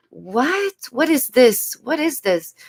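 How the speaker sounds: high, disbelieving "what"; a baffled, rising question; incredulous. Real, not acted. Vlogger baffled by what the creator said, incredulous.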